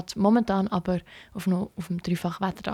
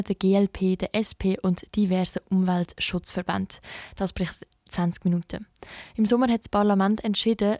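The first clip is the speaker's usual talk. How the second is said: steady, measured radio newsreader; news read. Real, not acted. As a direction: read the bulletin evenly and factually.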